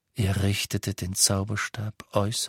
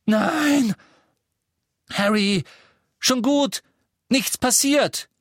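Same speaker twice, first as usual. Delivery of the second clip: put-on much higher, loud, urgent girl's voice; girl's voice calling; 6 dB louder than usual. A narrator's reading. Hermione calls Harry out of his nightmare, urgent. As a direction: rouse him gently but urgently.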